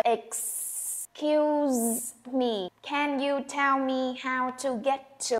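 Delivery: slow Excuse me, then rise at the end; rising question, light to. Shown as a demonstration. Teacher models the full polite question with a final rise. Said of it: "Những cái to, to này nó không được nhấn".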